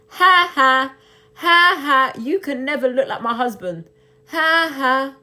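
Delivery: sneering cackle aimed at the trolls; mocking laugh. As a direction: laugh at them like a playground bully. Mocking the men attacking her.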